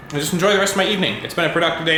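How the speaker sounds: talking with mouth full; words muffled by a mouthful of taco. Real, not acted. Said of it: "I'm talking with my mouth full".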